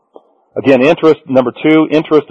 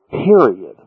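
"Period." set apart after a pause and dropped firmly; emphatic final word. Shown as a demonstration. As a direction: land "Period." as a hard full stop on a falling tone. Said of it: "I put the emphasis on the word period".

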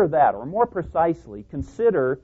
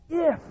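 "if" hit much higher; stress on IF. Shown as a demonstration. Preacher singling out "if" for the congregation. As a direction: lift "if" way up high before a pause. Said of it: "high stressed if".

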